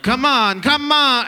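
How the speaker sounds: high, loud yell of come on; yelling coach dad. Retold or imitated. Dad yelling at a violin student, loud high shout. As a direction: push the kid hard, shouting. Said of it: "my dad would be like".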